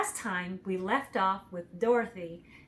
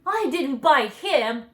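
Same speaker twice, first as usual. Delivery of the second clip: lion; 6 semitones higher, 9 dB louder than usual. A narrator's reading. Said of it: "said the lion as he rubbed his nose".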